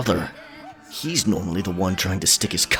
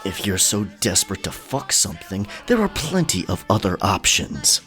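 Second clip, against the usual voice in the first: deep snarl rising in volume; low snarl; 13 semitones lower than usual. A narrator's reading. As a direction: snarl it low, building as you go. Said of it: "he snarled, voice rising".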